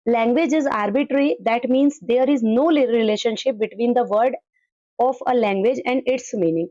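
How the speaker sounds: slow, deliberate reading of an English definition; slow dictation reading. Acted. Teacher reading a textbook definition aloud to the class, slowly. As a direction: read it word by word for students to copy down.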